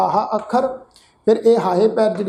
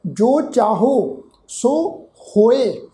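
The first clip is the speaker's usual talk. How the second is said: slow, measured Gurbani recitation; drawn-out chanted recitation; scripture recitation; much slower than usual. Shown as a demonstration. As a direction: recite the line slowly and devoutly. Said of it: "ਇਸੇ ਤਰ੍ਹਾਂ ਇਹ ਸ਼ਬਦ ਆ ਜੀ".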